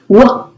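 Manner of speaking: "W" said as a short "wuh"; just the opening sound "W"; isolated phoneme. Shown as a demonstration. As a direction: sound out "W", not its letter name. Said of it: "substituting phonemes".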